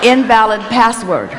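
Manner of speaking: talking calculator voice. Pretend. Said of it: "it says".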